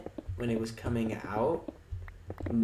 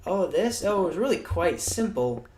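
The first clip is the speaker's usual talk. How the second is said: smug hero; 5 semitones higher than usual. Retold or imitated. The hero answering the bad guy, smug and breezy. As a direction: shrug it off like it was nothing. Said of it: "And he's just like".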